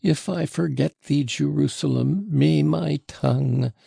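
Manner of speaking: high, frenzied lament breaking off; anguished, near sobbing. A narrator's reading. Grieving father swearing never to forget his son, anguished. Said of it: "He broke off with a sob".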